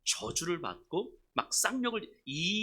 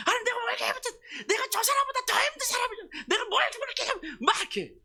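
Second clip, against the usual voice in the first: very high-pitched wailing protest; resentful outburst; 4 dB louder than usual. Acted. Pastor complaining to God in prayer, resentful wail. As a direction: pour out hammed-up grievance at God. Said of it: "그냥 막 원망하면서 하는 거예요".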